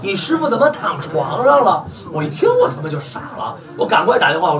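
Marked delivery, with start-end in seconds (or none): 0.0-1.8 1 mocking taunt. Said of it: "问我这问题".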